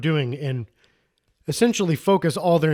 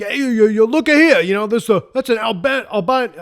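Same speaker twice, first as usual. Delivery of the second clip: loud, higher, hammed-up New York accent; terrible New York accent; 6 semitones higher, 5 dB louder than usual. Exterminator pointing out the drilled hole, in a hammed-up New York accent. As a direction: play a brash New York exterminator badly on purpose. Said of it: "I'm gonna do a terrible New York accent".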